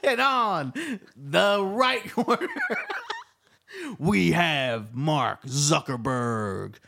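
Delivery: drawn-out ring announcer call; fight announcer. Pretend. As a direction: hype the fighters like a boxing MC. Announcing a fight between corners.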